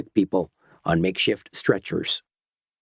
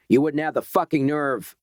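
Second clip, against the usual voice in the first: roaring; 5 semitones higher than usual. Acted. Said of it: "roared the man".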